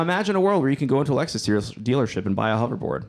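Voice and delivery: fast, upbeat pitch voice; confident startup pitch. Pretend. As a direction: sell the dream quickly. Mock sales pitch vision.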